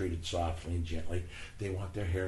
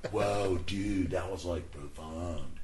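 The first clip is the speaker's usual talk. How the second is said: Keanu Reeves; 3 semitones lower, slower than usual. Retold or imitated. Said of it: "Keanu Reeves shot".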